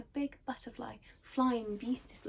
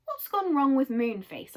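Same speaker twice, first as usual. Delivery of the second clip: anxious; 4 semitones higher, 6 dB louder than usual. Acted. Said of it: "asked Silky anxiously".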